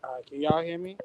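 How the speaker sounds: thin squeaky mic voice; tinny small voice over the line; mouse voice. Real, not acted. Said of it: "you sound like a mouse now".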